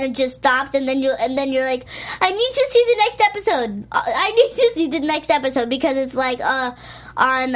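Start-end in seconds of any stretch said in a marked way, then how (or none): 2.2-5.7 mock urgency. Acts out an eager viewer.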